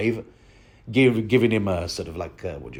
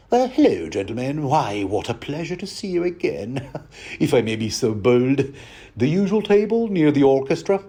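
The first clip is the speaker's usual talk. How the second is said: lightly higher, genteel mock hostess greeting; posh hostess; 4 semitones higher than usual. Joking wrong version of the innkeeper greeting, prim hostess. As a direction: play a prim restaurant hostess, tongue in cheek. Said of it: "that's not how the innkeep greets them".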